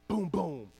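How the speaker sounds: spoken thump sound effect; imitated thump. Dad retelling a thump heard upstairs, imitated booms. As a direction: voice two heavy thuds. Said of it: "I hear this huge thump".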